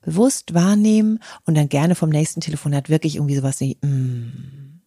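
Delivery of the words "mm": contented hum. Shown as a demonstration. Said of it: "Wohlfühllaut".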